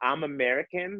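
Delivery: high, put-on Valley Girl accent. Retelling how Londoners imitate Americans: imitating a put-on Valley Girl voice. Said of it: "They do the Valley Girl".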